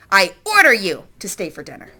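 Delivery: bossy mock order with a laugh; girl ordering the robot to stay, bossy and improper. A narrator's reading. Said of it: "In a very improper voice".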